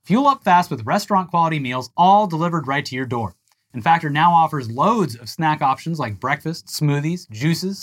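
steady sponsor read. Acted. Cohost takes his turn reading the Factor ad. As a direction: read the spot evenly.

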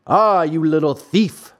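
a touch of anger in the accusation; mildly angry farmer. Acted. Farmer catches the puppet in his trap, mildly angry. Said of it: "said the farmer in an angry voice".

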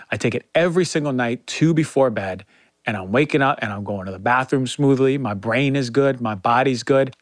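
upbeat podcast ad read, selling it; sponsor ad read. Acted. Host reads a sponsor spot to listeners, upbeat ad read. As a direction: pitch the supplement like a trusted friend.

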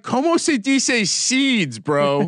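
high, drawn-out complaint in tourist Spanish; mock broken Spanish. Host haggling with a weed seller over seeds, hammed-up Spanglish. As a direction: stretch it out in exaggerated Spanglish protest. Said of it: "I'm like".

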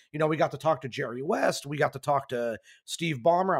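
losing his voice, hoarse. Real, not acted. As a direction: talk with a worn, hoarse voice. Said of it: "I'm losing my voice right now".

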